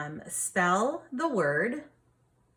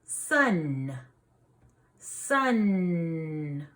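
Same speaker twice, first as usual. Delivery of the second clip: sun with a held final n; final consonant drill. Shown as a demonstration. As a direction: stretch the n at the end of sun. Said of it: "what's at the end".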